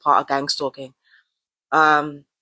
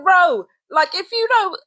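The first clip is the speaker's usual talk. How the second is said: laughing self-address; 13 semitones higher than usual. Real, not acted. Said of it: "And I'm just like".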